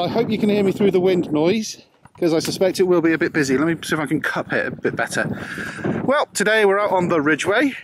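shouting over wind. Real, not acted. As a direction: call out over gusts. Outdoor vlog in strong wind.

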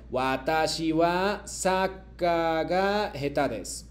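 slow, deliberate model sentence; slow model reading. Shown as a demonstration. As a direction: read it slowly for the class to repeat. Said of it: "yo leo y luego ustedes me repiten".

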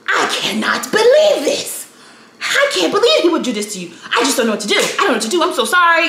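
put-on light Cuban accent, high and sympathetic; a hint of a Cuban boss's accent, gushing sorry; mild Cuban accent, distressed and caring. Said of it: "of Hispanic background, so she had the accent".

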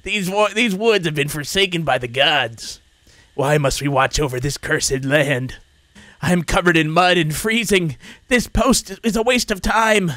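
slow, lightly voiced weary old man. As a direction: drag it out like a tired old guard. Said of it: "I can't do that voice".

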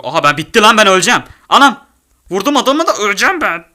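loud, high frantic cries; panicked yelling. Real, not acted. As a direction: shout as death nears. About to die in game.

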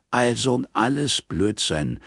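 slow, half amused grumble; half annoyed growl. A narrator's reading. Strike dismisses astrology to Robin, half annoyed, half amused. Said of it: "Halb verärgert, halb amüsiert knurrte er".

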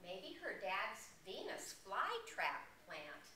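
animated picture-book narration with swooping pitch; lively storyteller delivery; reading to children. A narrator's reading. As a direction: read a storybook to little listeners.

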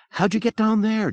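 high-pitched astonished question; amazed, relieved. A narrator's reading. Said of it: "She sounded amazed, relieved".

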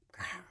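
playful little bear growl. Pretend. Storyteller to children playing bears, growling. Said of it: "Can you growl like a bear?".

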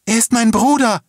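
high, loud outcry; desperate scream. A narrator's reading. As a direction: scream it in wild protest. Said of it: "schrie sie". (verzweifelt geschrien, laut und hoch)

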